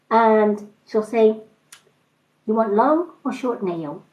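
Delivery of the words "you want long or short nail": a hint of a Chinese accent, nosy questions; Chinese accent impression. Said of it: "comedy nail thing".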